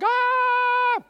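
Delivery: high, loud mock scream of the flesh. Preacher imitating his own flesh screaming while fasting, mock wail. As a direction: let the flesh wail in protest. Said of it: "the flesh is screaming like".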